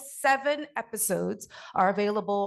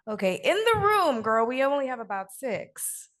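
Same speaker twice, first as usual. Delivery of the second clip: excited; 4 semitones higher, 4 dB louder than usual. Real, not acted. Host jokes about few hands.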